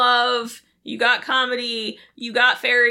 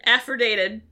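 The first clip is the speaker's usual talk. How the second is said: slurred, mumbled word. Real, not acted. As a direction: slur it like a tipsy person. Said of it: "You sound like a drunk person trying to say affidavit".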